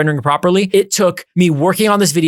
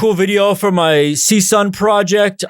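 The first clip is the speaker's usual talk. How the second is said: faked low effort; 3 semitones higher than usual. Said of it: "It looks like low effort".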